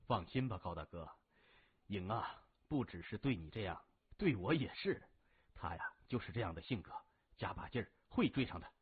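a hint of Xie Wendong, calm and encouraging; lightly voiced Xie Wendong. Xie Wendong reassures Gao Zhen.

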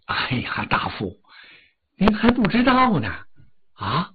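weeping palace official telling bad news; tearful official. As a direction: speak through tears to the minister. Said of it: "店头官也哭了".

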